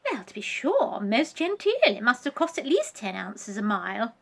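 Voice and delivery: a hint of snobbish praise; Vanessa voice. Vanessa's voice in the story.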